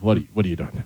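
low, soft mocking "What, what are you doing?"; sneering imitation of a rude stranger; mock rude question. Mocking rude travellers to a friend, low and soft.

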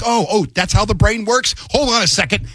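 high-pitched sarcastic telling-off; hammed-up exasperation, pitched well up; mock exasperated scolding. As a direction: scold your own brain with falling, pleading cries. Acts out scolding his own brain.

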